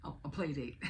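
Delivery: laughing at her own slip; laughing correction. Real, not acted. Mom correcting herself to viewers, laughing. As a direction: chuckle as you fix the word. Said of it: "That's what I meant to say".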